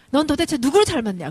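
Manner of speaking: 부모의 핀잔. Acted. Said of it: "그 소리 제발 좀 하지 마세요". (목소리 높여 아이를 나무라듯)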